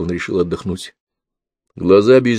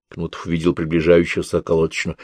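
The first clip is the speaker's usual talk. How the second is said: ordinary delivery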